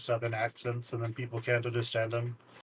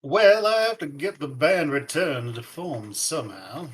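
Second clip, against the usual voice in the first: exasperated character; 3 semitones higher, 8 dB louder than usual. Acted. Cynthia character complaining.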